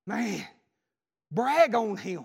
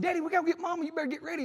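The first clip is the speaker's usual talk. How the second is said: calling out; 10 semitones higher, faster than usual. Retold or imitated. Son calling father again, unanswered.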